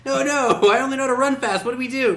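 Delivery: high, goofy hero voice; Sonic voice. Pretend. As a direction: play a dumb cartoon hero. Voicing Sonic as clueless.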